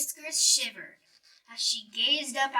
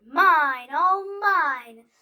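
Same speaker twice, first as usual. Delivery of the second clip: louder, drawn-out gloating; greedy gloat; 4 semitones higher, 10 dB louder, slower than usual. Acted. Bear gloating over his apples. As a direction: relish every apple. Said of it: "he muttered".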